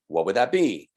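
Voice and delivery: "What would that be?" with the voice dipping then rising at the end; question tune. Shown as a demonstration. Teacher showing students how a question sounds, rising tune. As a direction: let "be" lift up like a real question. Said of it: "your voice in your head ... dips up".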